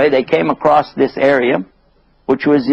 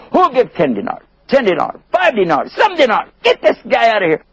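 high, impatient bidding call; pitched-up hawker; auctioneer; 10 semitones higher than usual. Acted. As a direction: hurry the sale along. Auctioneer drops the price.

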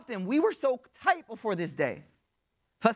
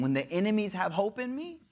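mild disbelief, rising at the end; dawning dismay, voiced for another; retold dismay. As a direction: let the line climb into a question. Retold dismay at enemy's letter.

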